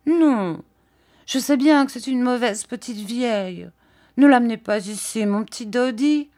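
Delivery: put-on high, childish alarmed pleading; little terrified air. A narrator's reading. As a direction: plead anxiously in a girlish high voice. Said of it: "d'un petit air épouvanté".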